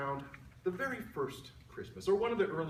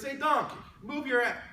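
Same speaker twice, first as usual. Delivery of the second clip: higher, louder mock shout at the donkey; worm yelling; 8 semitones higher, 6 dB louder than usual. Worm to donkey blocking his view, high mock shout. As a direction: snap at him to shift.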